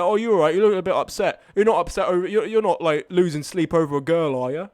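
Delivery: lightly imitated Cockney bloke checking in; Cockney accent. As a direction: do a mild, chatty Cockney. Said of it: "he's proper Cockney".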